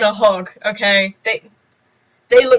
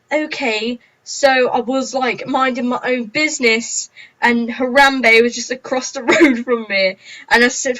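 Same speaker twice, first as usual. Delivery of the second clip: mock story-time vlogger; 2 semitones higher than usual. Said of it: "a load of people saying".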